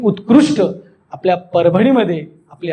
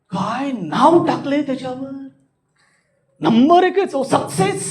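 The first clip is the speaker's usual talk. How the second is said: drawn-out, amazed admiration; astonishment; 4 semitones higher than usual. Shown as a demonstration. Speaker admires a name on display, in amazed wonder. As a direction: marvel at it, voice soaring high. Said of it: "आश्चर्य".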